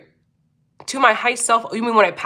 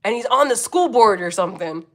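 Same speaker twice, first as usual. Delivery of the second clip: laughing Karen quote. Retold or imitated. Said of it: "you have to say he's".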